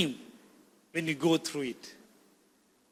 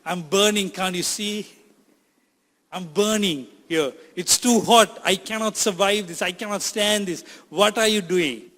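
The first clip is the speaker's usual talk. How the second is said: louder cries of a pot in the furnace; a hammed-up louder shout of pain; retold screaming; 5 dB louder than usual. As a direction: cry out that you're burning, pleading. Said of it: "I'm screaming out saying that".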